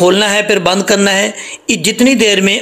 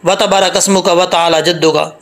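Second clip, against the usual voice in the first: hurried wrong reading. Shown as a demonstration. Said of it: "जल्दी में".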